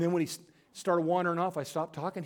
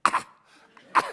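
choking dog gasps. Retold or imitated. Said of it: "my dog's over there going".

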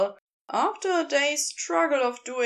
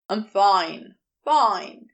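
low, louder dismissal; Crowley, low and a touch louder; brushing it off; 3 semitones lower, 6 dB louder, slower than usual. Acted. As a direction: wave off the concern.

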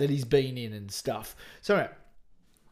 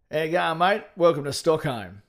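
louder, lightly played Australian actor; mock Swedish-accent impression that stays Aussie; Brian Brown; 5 dB louder than usual. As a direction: throw out a hearty, half-hearted impression. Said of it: "Brian Brown as a, a-, and which part of Sweden".

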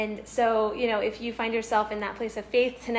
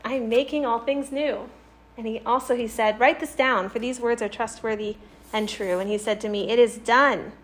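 scripture reading; 3 dB louder than usual. A narrator's reading. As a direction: clear public Bible reading, strong phrase openings. Reads scripture aloud.

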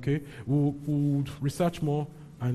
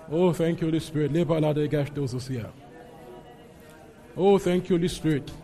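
prayer. Real, not acted. Leads prayer, slipping into tongues.

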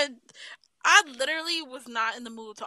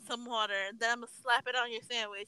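mock retort. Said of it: "It's like".

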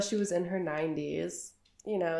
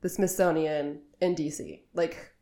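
loud, emphatic retold protest; mock-exasperated insisting; insistent; 6 dB louder than usual. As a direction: argue it as obvious proof. Retold argument convincing French in-laws.

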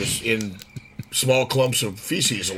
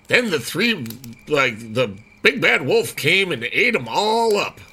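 nursery rhyme voice; 4 semitones higher, slower than usual. Pretend. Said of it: "say it like a nursery rhyme".

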